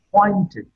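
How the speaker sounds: appointed with a clear fall; isolated word with falling tone. Shown as a demonstration. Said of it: "Appointed has been marked with a falling tone".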